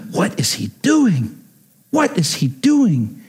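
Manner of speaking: slow, lightly imitated dismayed child; mock alarm, drawing out the question; a hint of an appalled kid; Lulu. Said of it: "Lulu looks and she goes".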